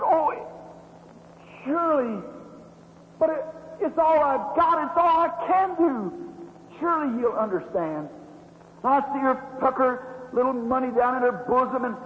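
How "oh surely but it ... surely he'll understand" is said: mild hopeful plea. Retold or imitated. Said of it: "She said".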